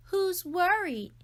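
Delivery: high, loud sly taunt; taunting sister. A narrator's reading. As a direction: toss off a sly jab.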